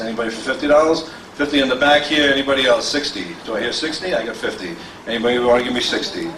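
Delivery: steady rolling auction patter, asking the room for bids; auctioneer bid calling. Acted.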